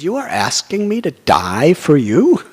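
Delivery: mock-incredulous question, pitch swooping up; joking. Dadichi testing the demigods who ask his life, joking. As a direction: play it as a teasing challenge. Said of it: "he said a joke".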